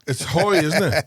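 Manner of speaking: lifted "high", said with an oi vowel; high pitch. Shown as a demonstration. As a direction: say "high" up high, as in a Traveller accent. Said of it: "Give us a sample of it".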